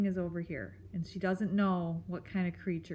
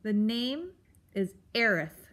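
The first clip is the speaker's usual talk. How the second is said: grumpy creature snapping a correction; louder, testy self-introduction; snappish; 2 semitones higher, 4 dB louder than usual. Acted. Beast corrects the mouse on his name, snappish. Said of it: "the animal snapped".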